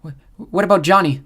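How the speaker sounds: high, stammering squeak. A narrator's reading. Emma in the van, stunned by the news, squeaking high. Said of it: "Emma squeaked".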